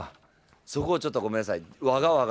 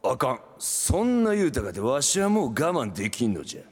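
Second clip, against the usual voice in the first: lightly voiced old man; gruff old man, half-played; creaky wise old man. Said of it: "あかん言うとろうが".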